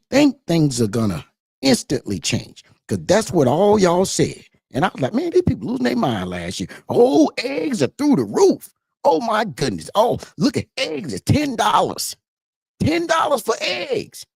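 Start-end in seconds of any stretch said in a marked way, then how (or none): 5.1-14.2 mock panic. Mimicking last year's outrage over egg prices, mock panic. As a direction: wail it high, imitating people in a panic.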